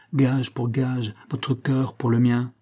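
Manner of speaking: each word laid down very slowly; slow insistence. Acted. Moore demanding Shirley's heart in exchange, slowly and deliberately. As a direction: weigh every word like a vow.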